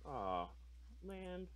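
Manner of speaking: disappointed sigh. Real, not acted. Opponent's play goes badly.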